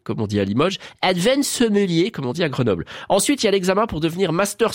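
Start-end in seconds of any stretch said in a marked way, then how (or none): 1.0-2.1 slow, higher mock English accent; put-on English accent. Shown as a demonstration. Presenter listing exam levels, slow put-on English accent. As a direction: draw it out in a rough English accent.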